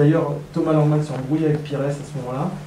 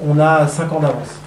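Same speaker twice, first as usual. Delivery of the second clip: fierté prétentieuse; 5 dB louder than usual. Retold or imitated. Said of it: "on était très prétentieux".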